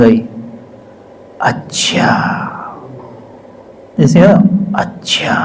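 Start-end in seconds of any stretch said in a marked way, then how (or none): 1.4-2.1 breathy hushed whisper of a distant voice; whispered divine voice. Retold or imitated. Narrator recalls God's voice in class, soft whisper. 4.8-5.3 hushed whisper of a voice from far off; whispered divine voice. Retold or imitated. Narrator re-imitates the voice he heard, faint whisper. Repeating God's voice heard in class.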